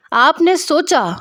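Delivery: high-pitched angry challenge. A narrator's reading. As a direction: throw the words back in outrage. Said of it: "اس بار ان کی آواز بلند تھی". (بلند، غصیلی آواز)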